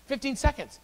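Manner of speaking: high, amazed repeat of the number; amazed emphasis. Real, not acted. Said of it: "repeats for emphasis".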